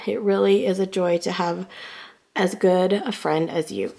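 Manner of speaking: hoarse, strained voice; losing voice. Real, not acted. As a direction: voice going hoarse, worn out. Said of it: "like, losing my voice".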